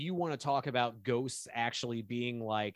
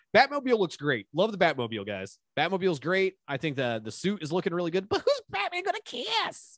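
loud, animated, energetic voice; 7 semitones higher, 7 dB louder than usual. Doing a bit about a guy from every Batman movie creative meeting, impression of Batman-meeting guy. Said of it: "this is my impression of a guy".

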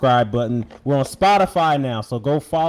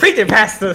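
put-on loud, high, cheering old church-lady voice; 8 semitones higher, 8 dB louder than usual. During a group Bible reading, calling out to the reader, imitating old church lady. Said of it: "I'll be like that one old lady in church".

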